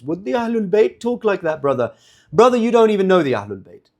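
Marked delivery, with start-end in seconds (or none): 0.0-1.9 mock pious scolding, higher pitched; mock pious critic. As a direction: parody of a sanctimonious critic. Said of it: "argument that they often use".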